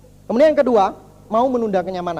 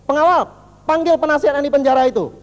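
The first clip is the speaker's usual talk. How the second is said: raised, louder royal summons; calling out; 4 semitones higher, 5 dB louder than usual. Acted. King summoning his guard, calling out.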